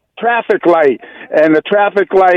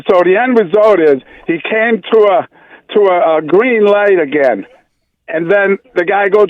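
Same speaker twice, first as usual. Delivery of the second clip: ordinary talk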